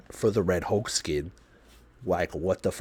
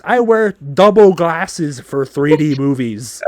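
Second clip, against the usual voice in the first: indignant aside; 5 semitones higher, 9 dB louder, slower than usual. Real, not acted. Complaining about the glare.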